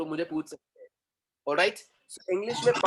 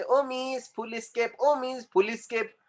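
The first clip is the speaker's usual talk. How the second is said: high-pitched, drawn-out call to the teacher; slow, high mock-pupil plea; imitated schoolchild; 6 semitones higher, slower than usual. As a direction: mimic a pupil calling out to Miss. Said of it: "अपन बचपन से बोलते आ रहे थे".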